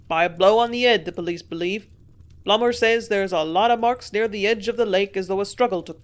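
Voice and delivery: loud, eager innkeeper telling all; gossiping landlord. A narrator's reading. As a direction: relish every detail like a village gossip. Landlord continues.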